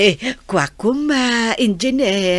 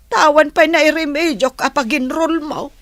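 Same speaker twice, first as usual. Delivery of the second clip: higher tearful lament; crying, higher; 6 semitones higher than usual. Acted. Mother laments the unpaid enrollment, crying. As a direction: voice breaking, lamenting.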